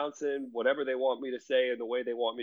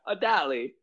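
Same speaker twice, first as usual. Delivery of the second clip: mock London accent; 3 semitones higher than usual. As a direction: imitate a friend faking a London accent. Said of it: "trying to do this London accent".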